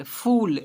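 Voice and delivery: फूल with the u drawn out as oo; long oo sound. Shown as a demonstration. Teacher showing pupils how to read the word, long oo sound. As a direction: say फूल with a clear oo vowel. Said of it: "ऊ पढ़ रहे हैं".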